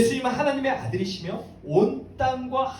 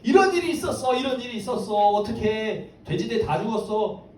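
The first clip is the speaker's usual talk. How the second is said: mock alarmed report. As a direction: act out breathless gossip, pitch jumping then easing. 놀란 사람들이 마을에 소식을 전함. (놀라서 소문을 전하는 흉내)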